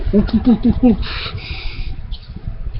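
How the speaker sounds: soft, high imitated ape hooting; fleeing monkey hoots. A narrator's reading. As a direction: hoot like monkeys running off. Gorilla army runs away.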